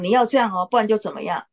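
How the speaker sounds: quick, mild mock threat; lightly acted ultimatum, hurried along; threatening tone. Shown as a demonstration. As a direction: demonstrate a brisk or-else warning. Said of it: "这样的话就是威胁了".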